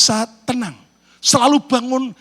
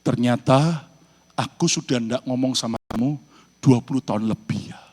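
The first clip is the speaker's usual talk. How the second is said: quiet husband voice; 6 semitones lower, 3 dB quieter than usual. Acted. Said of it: "suaminya mulai bicara".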